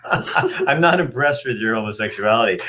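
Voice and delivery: words through a real laugh. Real, not acted. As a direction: laugh as you say it. Laughing while speaking.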